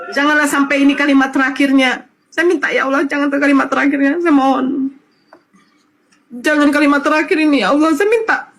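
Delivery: choked-up retold prayer; tearful pleading. Daughter begs God these not be mother's last words, tearful pleading. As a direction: plead with God, close to tears.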